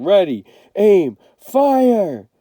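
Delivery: loud, rising barked command; firing squad order. Acted. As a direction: call it like an officer ordering the shot.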